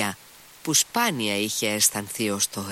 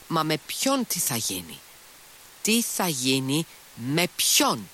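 mild cry of impatience, higher pitched; exclaiming; 6 semitones higher than usual. A narrator's reading. Lise demanding to know whom he means, exclaiming. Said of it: "ξεφώνησε η Λις".

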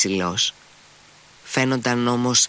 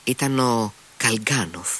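ordinary delivery

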